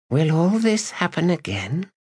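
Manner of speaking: high, fearful questioning; frightened woman. A narrator's reading. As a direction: ask in sudden fear, high. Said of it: "sudden fear ripped through her".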